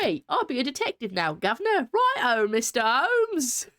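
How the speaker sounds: high, hammed-up old London accent; worst Victorian London accent. Streamer greeting Mister Holmes, hammed-up London accent. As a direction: lay on a terrible London accent, drawing out the end. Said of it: "In your worst eighteen hundred London accent".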